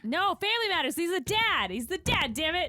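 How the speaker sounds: high, loud exasperated correction; mock-outraged high protest; indignant insistence. Real, not acted. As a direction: insist on it, half laughing and outraged. Insisting on Family Matters dad.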